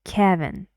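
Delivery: "Kevin" stressed on KEV; "Kevin" with a firm first syllable and light second. Shown as a demonstration. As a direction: hit KEV, let -in drop in "Kevin". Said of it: "the stress is on the first".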